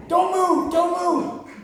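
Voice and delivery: high, loud shout of don't move; loud panicked command; shouted warning. Retold or imitated. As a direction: bark it like a startled man with a gun.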